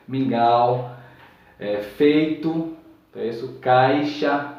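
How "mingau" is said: Mingau said loud and open, au well rounded; Mingau, teacher's model; demo word, said out loud. Shown as a demonstration. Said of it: "é aberto".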